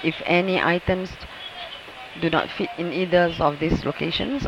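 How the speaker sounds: measured cabin safety announcement; airport announcement. Real, not acted. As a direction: read the safety notice to passengers.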